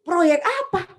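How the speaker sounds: incredulous high, loud retort. Retold or imitated. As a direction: throw the question back in disbelief. Friends pestering her about projects.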